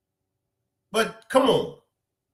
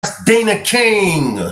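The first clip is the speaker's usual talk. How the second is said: hype; 8 dB louder than usual. Real, not acted. Hyping up the attorney's clip.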